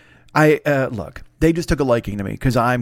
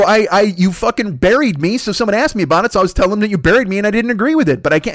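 higher, hurried self-justification; defensive protest; 5 semitones higher than usual. Retold or imitated. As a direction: argue your case to the boss, flustered. Retold protest to the boss.

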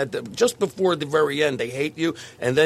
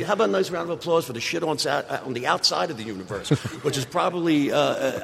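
emcee voice; 2 semitones lower than usual. Retold or imitated. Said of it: "my absurd opening".

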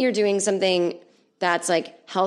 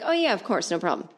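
mock friendly. Shown as a demonstration. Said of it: "another way to say that".

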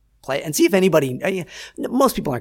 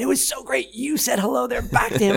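much higher gushing fan voice; excited fan; 11 semitones higher than usual. Retold or imitated. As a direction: gush like a thrilled fan.

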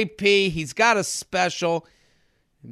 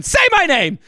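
higher, harsh commanding snarl; dominatrix; 8 semitones higher than usual. Retold or imitated. Older woman turned dominatrix demanding Jared say her name, snarled high. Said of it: "dominatrix situation".

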